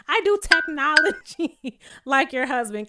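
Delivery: laughing, loaded mock jab at the husband; pointed dig. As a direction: lean on it like a sly insult. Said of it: "She might as well say".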